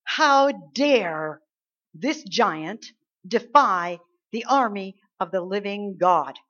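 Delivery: loud, slow-burning outrage with pauses; indignant challenge, hit HOW DARE hard; righteous indignation. Acted. David confronting the army's fear of the giant, righteously indignant. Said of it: "he was filled with righteous indignation".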